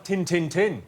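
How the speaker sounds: 模仿约克郡口音; Yorkshire accent "Tin, tin, tin" said flat and clipped; mock Yorkshire. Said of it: "They say things like".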